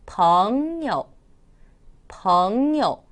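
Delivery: 벙여 with 벙 gliding long upward, 여 dropping lightly; second plus neutral tone. Shown as a demonstration. Teacher demonstrating tones, 벙여 rising long then dropping. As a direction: pull 벙 up, then let 여 fall short. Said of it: "쭉 끌어올렸다가 살짝 내려주네요".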